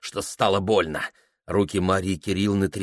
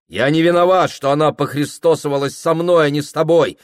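trembling voice; 7 semitones higher, 6 dB louder, faster than usual. A narrator's reading. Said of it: "сказал Прохор дрожащим голосом".

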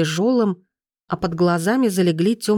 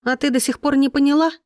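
icy triumph; 8 semitones higher, faster than usual. A narrator's reading. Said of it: "с ледяным триумфом".

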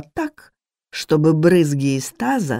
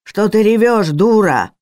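higher, louder contemptuous snap; angry scolding; 6 semitones higher, 5 dB louder than usual. Acted. Cook scolds the sobbing maid, higher louder angry snap. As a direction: bark at her to stop crying.

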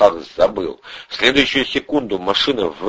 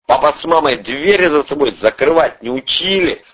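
barked jibe; 7 semitones higher, 3 dB louder than usual. Acted. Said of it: "рявкнул Андрей".

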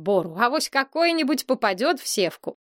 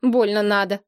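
grumbled retort. A narrator's reading. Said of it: "буркнул Сева".

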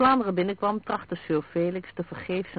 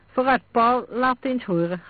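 smiling; 6 semitones higher, 6 dB louder than usual. A narrator's reading. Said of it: "glimlachte ze".

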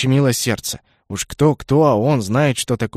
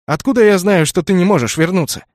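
louder, higher indignant outburst; flaring up; 5 semitones higher, 5 dB louder than usual. A narrator's reading. Kenneth flaring at the dragon, loud and high. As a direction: snap back in frustration. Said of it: "вспылил Кеннет".

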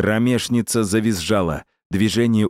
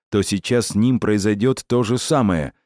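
plain reading voice

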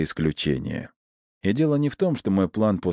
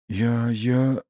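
higher-pitched, shocked stammer; horrified stammer; 6 semitones higher than usual. A narrator's reading. Анисим looking at the guard's body, horrified stammer. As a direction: stumble on the word in horror. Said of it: "судорожно забормотал Анисим с ужасом и потрясением".

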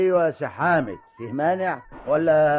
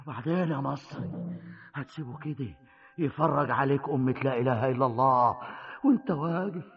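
brooding to himself; 7 semitones lower, 7 dB quieter than usual. Acted. Brooding alone over ruined land.

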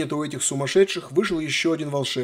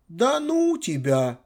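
slow, hurt, higher whine; offended drawl; 4 semitones higher, much slower than usual. Acted. Granddaughter sulking at her grandfather, slow offended drawl. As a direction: stretch it out like a sulking girl. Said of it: "обиженно протянула она".

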